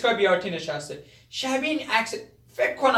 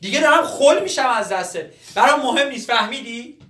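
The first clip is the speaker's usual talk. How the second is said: raised, fed-up threatening voice; exasperated threat. Acted. Young man threatens the troublesome old man, exasperated. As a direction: threaten him, at the end of your patience.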